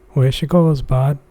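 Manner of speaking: bad Newfoundland accent. Shown as a demonstration. Streamer showing viewers how Newfoundlanders talk, rough Newfoundland accent. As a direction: have a go at a Newfoundland accent, badly. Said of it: "I'd try to do an accent".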